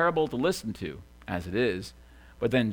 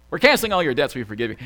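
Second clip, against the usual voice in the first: half-joking impersonation of a president; Obama; 4 dB louder, much faster than usual. Acted. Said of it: "I don't know what that voice is".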